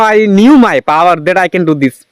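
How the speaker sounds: ordinary talk, nothing marked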